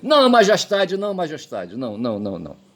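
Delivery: plead, then let it die away; desperate woman's plea. Retold or imitated. Corrected take: the mother begs the king with "majestade". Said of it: "Quem gritou, "Doutor", fui eu".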